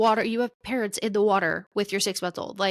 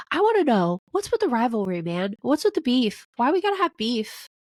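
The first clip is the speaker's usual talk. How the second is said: higher, louder playful exasperation; playful outburst; 3 semitones higher, 3 dB louder than usual. Real, not acted. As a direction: throw your hands up, teasing. Calling out pros over the rivalry.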